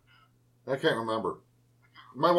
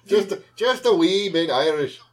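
mock Irish accent; 3 semitones higher than usual. Playful claim of Irish roots.

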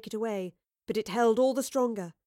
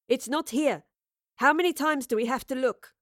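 seething; 3 semitones higher than usual. Acted. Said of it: "the woman seethed".

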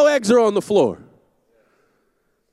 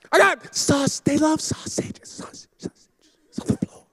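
mock lament; 5 semitones higher, 5 dB quieter than usual. Lamenting the ruined sausage.

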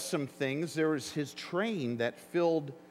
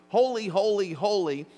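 seraphs' cry; 2 semitones higher, 5 dB louder than usual. Retold or imitated. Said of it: "The seraphs were saying".

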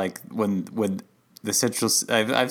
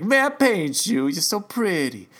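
charming painter; 8 semitones higher, slower than usual. Retold or imitated. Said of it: "and he's like".

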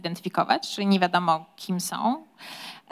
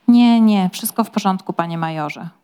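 louder quick calming; urgent reassurance; 7 dB louder than usual. Acted. Valet hurriedly calming his frightened master. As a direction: cut in fast to calm him.

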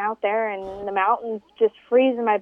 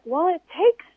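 high, slow, patronizing; patronizing driver; 9 semitones higher, much slower than usual. Retold or imitated. Driver brushing her off, high and patronizing. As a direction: talk down to her sweetly.

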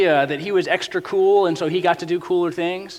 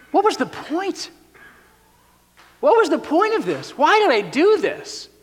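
much higher, whiny lament; a hammed-up moan of regret; mock despair; 9 semitones higher than usual. Midlife regret voice.

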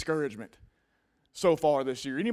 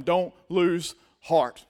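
slow and deliberate; 4 dB louder, much slower than usual. Shown as a demonstration. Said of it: "look at somebody sitting beside you and tell them".

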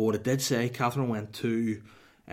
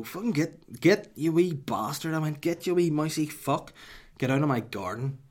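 higher, louder yelling at a mouse; shooing yell; 6 semitones higher, 4 dB louder than usual. Retold or imitated. Shooing the wee mouse out of the garden, loud. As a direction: chase it off with a shout.

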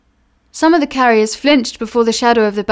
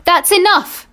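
firm refusal; 8 semitones higher than usual. Acted. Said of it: "said one of the two men".

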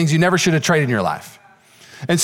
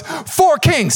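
triumphant claim; 10 semitones higher than usual. Retold or imitated. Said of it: "he goes".

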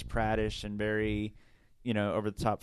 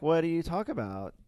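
put-on teen girl voice; 4 semitones higher than usual. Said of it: "This is how she talked".

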